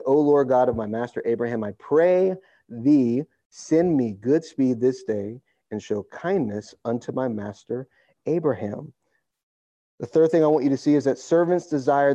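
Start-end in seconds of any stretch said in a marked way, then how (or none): 0.1-8.9 heartfelt prayer. Shown as a demonstration. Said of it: "notice the heart attitude in verse twelve".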